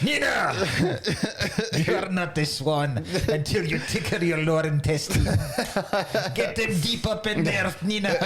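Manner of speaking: hint of a French accent, commanding; mock ballet director lightly attempting a French accent; Vincent Cassell. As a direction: order her about in rough French-accented English. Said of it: "I think I can either".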